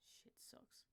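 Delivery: unvoiced under-breath curse; whispered curse. Real, not acted. Streamer grumbling alone at broken setup, whispered. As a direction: hiss it to yourself. Muttering over broken source.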